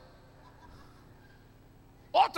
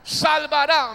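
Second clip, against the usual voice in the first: said loud; 2 semitones higher, 5 dB louder than usual. Acted. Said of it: "diga fuerte".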